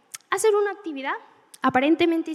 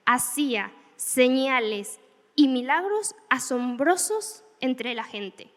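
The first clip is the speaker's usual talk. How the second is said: slow reading; slower than usual. Shown as a demonstration. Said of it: "Me gusta porque dice".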